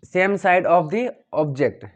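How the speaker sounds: each word drawn out, very slow; the phrase students must memorise, very slow; very slow dictation. Shown as a demonstration. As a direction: dictate it slowly so students say it exactly. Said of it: "आपको बोलना है".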